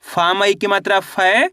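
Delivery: "फै" stretched and swept upward; spelling-out demonstration. Shown as a demonstration. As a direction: spell it out, ending on a long rising "फै". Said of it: "अब उच्चारण किस तरीके से करेंगे".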